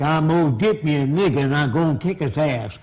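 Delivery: a hint of rural Southern accent, imitated. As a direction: mimic an uneducated Southerner. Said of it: "I'm imitating them".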